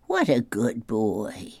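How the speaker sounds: drawn-out pat-on-the-head voice; praising a child. Acted. Grandpa imitates people praising him.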